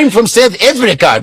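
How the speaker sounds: lightly imitated white South African accent; mock South African accent. Mocking white people calling themselves Africans, lightly mocked South African accent. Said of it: "white people are calling themselves Africans".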